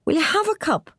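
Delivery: high, laughing offer; can't keep the laugh out of it. A narrator's reading. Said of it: "laughing in spite of herself".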